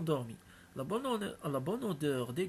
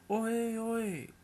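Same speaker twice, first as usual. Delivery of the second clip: loud hailing call from afar; 5 semitones higher, 6 dB louder, slower than usual. A narrator's reading. Voice calling the cowherd from a distance, loud hail. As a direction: call out to get his attention. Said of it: "une voix qui l'appelait".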